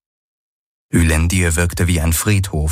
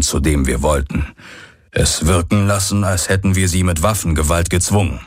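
slightly lower, sombre character voice; understated gloom in a lowered voice; lightly voiced grim Hox; 3 semitones lower than usual. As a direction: explain it grimly, with restraint.

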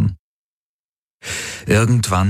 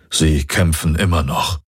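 worried. Acted. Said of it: "sagte Hawks bekümmert".

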